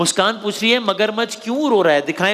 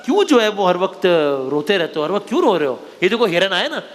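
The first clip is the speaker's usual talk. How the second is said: put-on storytelling to kids. Host telling children a crocodile story, storyteller's read. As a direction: tell it like a bedtime tale.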